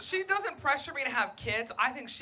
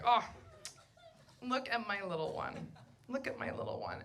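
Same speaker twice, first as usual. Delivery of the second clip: mock doting coo; 8 dB quieter than usual. Friends showing baby photos.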